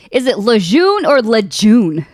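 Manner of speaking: first Lejeune French-style, second Lejeune with hard J; two pronunciations compared. Shown as a demonstration. Host asking which Lejeune is correct, contrasting both pronunciations. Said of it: "I hear it both".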